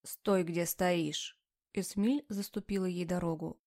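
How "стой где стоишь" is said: slow, hard commanding order. Acted. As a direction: stop her with slow menace. Esmil blocks the way commandingly.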